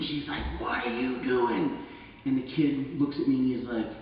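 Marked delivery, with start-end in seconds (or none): 0.6-1.8 mom yelling. Retold or imitated. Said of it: "the mom from the party start screaming".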